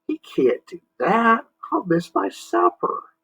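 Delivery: put-on very high boyish protest; indignant Jimmy. Jimmy protesting to Marsmen, high indignant voice. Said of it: "Jimmy said".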